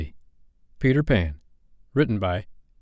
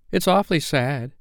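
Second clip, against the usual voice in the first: put-on higher, chirpy child's voice; cheerful; 7 semitones higher than usual. A narrator's reading. First twin reacting to Wendy's story, cheerful. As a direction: say sad words cheerfully.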